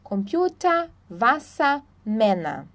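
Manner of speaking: "Computer", "Wasser", "Männer" ending in A. Shown as a demonstration. Teacher recapping final ER, A ending in "Computer", "Wasser", "Männer". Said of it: "sempre vai ser A".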